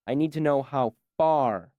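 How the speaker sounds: far leaned on at the end of the line; last word far pressed with mild impatience; stress on far. Acted. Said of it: "stressing the last word".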